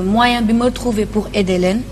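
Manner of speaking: ordinary delivery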